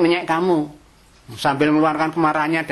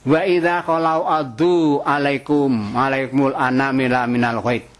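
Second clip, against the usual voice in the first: Quran recitation; 2 semitones lower, slower than usual. Acted. Quran verse quoted in sermon.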